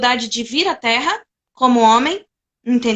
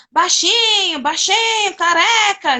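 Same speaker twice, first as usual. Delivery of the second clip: half-shouted mock name-calling; mock jeering shout; 7 semitones higher, slower than usual. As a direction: imitate a crowd heckling someone, pitched well up. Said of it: "o pessoal começa a gritar".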